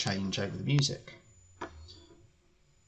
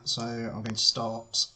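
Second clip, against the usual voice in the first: strained, throat-clearing voice; losing voice. Real, not acted. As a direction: talk through a failing voice. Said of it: "Sorry, I'm losing my voice a bit".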